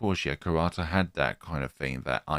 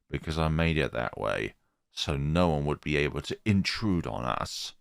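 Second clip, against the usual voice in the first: creepy teacher voice. Acted.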